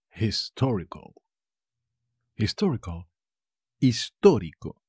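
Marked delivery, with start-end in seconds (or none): 3.8-4.8 "Histórico" with TÓ punched louder; strong second syllable in "Histórico"; stress on first O. Shown as a demonstration. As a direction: hit the accented ó in "Histórico". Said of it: "Tiene un acento en la primera O".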